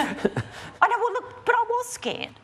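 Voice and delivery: high, laughing admission; giggling confession, voice jumping high. Real, not acted. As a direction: laugh it off while owning the fear. Laughs at being called fearless.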